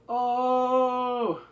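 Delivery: high, loud shocked gasp of Oh; surprised oh. Retold or imitated. Viewer reacting to the reveal, high surprised cry. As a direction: burst out in surprise. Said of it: "I was like".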